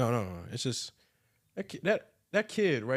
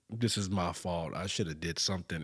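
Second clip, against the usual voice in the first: put-on guilt-stricken boy; 8 semitones lower, 6 dB quieter than usual. A young boy blames himself at the funeral, soft and guilty. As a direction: mourn like a little boy blaming himself. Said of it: "he's just like ... And he's just crying".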